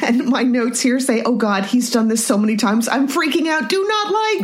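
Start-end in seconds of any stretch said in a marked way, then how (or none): 1.2-4.4 mock panic. Reading own panicked viewing notes.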